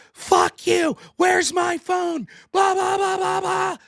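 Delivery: high, loud furious yelling at the driver she hit; screaming at me. Retold or imitated. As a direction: shriek it out, raging and out of control. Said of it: "she starts flipping shit on me".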